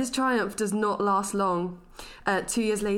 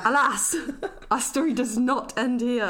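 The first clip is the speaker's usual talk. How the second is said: louder, hammed-up tragic narration; mock-dramatic storyteller; 4 semitones higher, 4 dB louder than usual. Host continuing the inventor's flop, mock-dramatic narration. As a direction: declaim it with mock gravity, breaking into a laugh.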